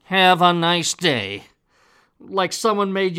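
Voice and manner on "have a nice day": slow, louder forced pleasantry. Shown as a demonstration. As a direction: say it like someone made you. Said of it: "well, forced".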